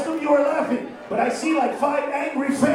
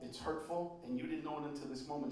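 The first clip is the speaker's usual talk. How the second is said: ordinary talk, nothing marked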